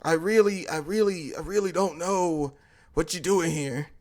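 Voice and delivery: hushed, halting stammer; softly faltering, mildly fearful; scared. Retold or imitated. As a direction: imitate a nervous bystander stumbling over words. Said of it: "I'm sitting there scared, kinda shaking a bit".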